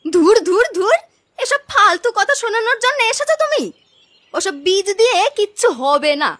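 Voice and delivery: loud, irritated "ধুর, ধুর", brushing her off; dismissive scoff. Acted. Sister scoffs at grandmother's seed, irritated and loud. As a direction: wave the old woman away in disgust.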